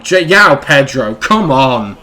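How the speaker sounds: frustrated shout at a teammate; exasperated come on. Real, not acted. Gamer yelling at his striker, exasperated. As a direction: groan it out at the screen.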